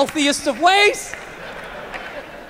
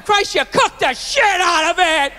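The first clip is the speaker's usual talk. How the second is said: slow, raised-pitch mock scolding; giving a rough time; 5 semitones higher than usual. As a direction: imitate dad griping about dinner. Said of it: "He'd give her a rough time".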